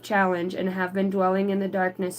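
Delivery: measured spiritual reading; read-aloud card message. Acted.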